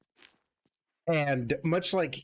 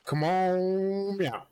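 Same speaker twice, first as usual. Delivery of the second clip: exaggerated mock protest; 5 semitones higher, much slower than usual. Acted reply, repeated with exaggeration.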